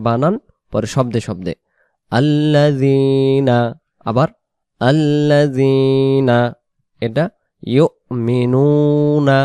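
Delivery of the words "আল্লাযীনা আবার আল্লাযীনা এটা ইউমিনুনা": each word drawn out very slowly; word by word recitation. Shown as a demonstration. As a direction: stretch every word for students to copy. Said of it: "শব্দে শব্দে টানবো". (শব্দে শব্দে টেনে পড়া)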